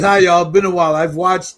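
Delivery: a hint of a Chicago accent. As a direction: lightly do his Chicago accent. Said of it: "that's his Chicago an-, accent".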